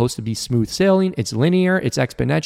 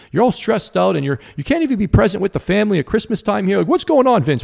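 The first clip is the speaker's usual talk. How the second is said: imitating exasperated dad; 5 semitones higher, faster than usual. Dad's frustrated Christmas outburst retold.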